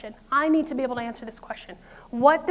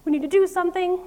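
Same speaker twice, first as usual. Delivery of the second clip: mock panic; 5 semitones higher, faster than usual. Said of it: "It's like".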